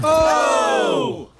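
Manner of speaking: sudden shocked yelp; shocked shout. Real, not acted. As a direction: recoil at the sight. Bishop lifts cassock, goes commando.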